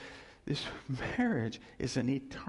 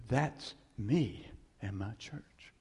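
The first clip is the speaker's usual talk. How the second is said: slow, lower and tender; Christ looking down; 5 semitones lower, 4 dB quieter, slower than usual. Acted. Christ looking down on a wedding, slow and tender. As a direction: let each word settle, slowly.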